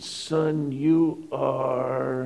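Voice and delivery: the pastor leaning in, hushed and high; pastor's voice, high and hushed. Retold or imitated. Pastor voice retold in sermon.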